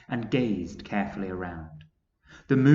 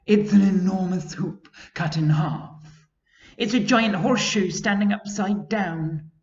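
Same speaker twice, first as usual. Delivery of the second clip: higher, louder wondering guesses; wondering character; 9 semitones higher, 7 dB louder than usual. Acted. Travellers guessing the arch, higher louder wonder. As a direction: guess at the strange sight.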